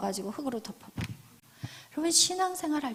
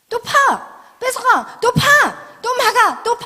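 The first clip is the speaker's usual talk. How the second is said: high, loud exclamations in bursts; insistent shouting; 8 semitones higher, 10 dB louder, much slower than usual. Acted. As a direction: fire off each short phrase like a blow. Acted back-and-forth over the wells. (높고 크게 몰아치듯 외치기)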